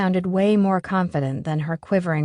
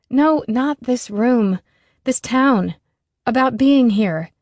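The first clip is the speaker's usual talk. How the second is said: urgent; 5 semitones higher, 5 dB louder, slower than usual. A narrator's reading. Allie pushing her point.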